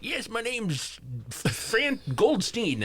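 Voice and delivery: put-on old man voice. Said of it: "your old man voice is, like, on point".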